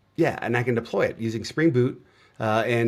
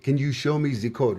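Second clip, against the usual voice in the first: put-on Russian accent. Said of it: "he did it with a Russian accent".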